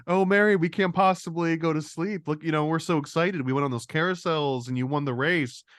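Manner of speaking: lightly voiced syrupy nanny; mock sweet voice. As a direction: play the sugary gaslighter. Retelling character's gaslighting voice.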